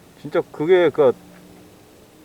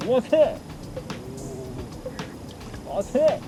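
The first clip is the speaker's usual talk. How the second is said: excited calling out; 3 dB quieter, slower than usual. Real, not acted. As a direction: call out to the birds in delight. Calling out at birds. (새를 보고 높게 외치는 소리)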